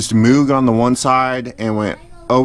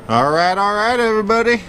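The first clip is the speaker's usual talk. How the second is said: Matthew McConaughey; 9 semitones higher than usual. Retold or imitated. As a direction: lean into a lazy, stretched-out all right. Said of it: "Get a little Matthew McConaughey on you guys".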